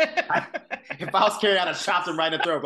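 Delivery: laughing through the words. Real, not acted. Host laughing at her own fantasy about Carrie's revenge. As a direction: chuckle while threatening.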